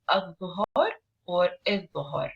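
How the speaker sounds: "ad-duhur or id-duhur" with a doubled heavy th as in "the"; hard th sound. Shown as a demonstration. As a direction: hold the hard voiced th in "ad-duhur or id-duhur". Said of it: "we have the last hard letter".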